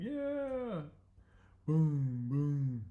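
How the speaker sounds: high, loud whooping yeah; crowd cheer. Acted. The crowd cheers the bear's hit, a high yell. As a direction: yell it like the whole stadium.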